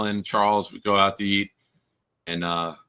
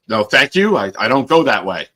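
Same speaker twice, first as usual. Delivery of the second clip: imitating Charles; 4 semitones higher, 5 dB louder than usual. Charles refusing, mimicked.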